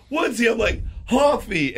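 high, thrilled surprise; retold excited hello; excited greeting. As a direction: greet an old friend with delight. Surprise meeting Trevor Hoffman.

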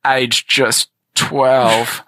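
very slow, drawn-out seductive voice; sexy contestant voice. Acted. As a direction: stretch every word like a smooth suitor. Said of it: "His voice is making me uncomfortable".

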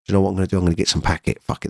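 mildly hushed, coaxing inner voice; tempting inner voice. Retold or imitated. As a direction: lightly voice the urge talking you into a binge. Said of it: "That's what my mind used to be like".

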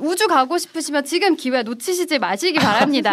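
lightly hammed TV sales pitch; a hint of an infomercial host pushing a deal; home shopping host. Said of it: "홈쇼핑인 줄 알았어".

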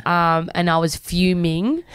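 slow, leaning hard on "fuming" with a rising tune; stress on fuming. Real, not acted. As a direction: draw out "fuming" and push it up at the end. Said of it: "Emphasis on the fuming".

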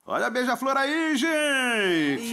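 high, loud samba-school shout; samba puller call. Shown as a demonstration. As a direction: call out like a carnival puxador. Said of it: "Então cante o samba enredo". (puxador de samba gritando alto e agudo)

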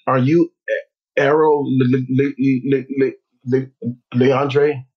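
halting, repeating every syllable; imitated stutter. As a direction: stutter through the words nervously. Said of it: "you used to st-, st-, stutter".

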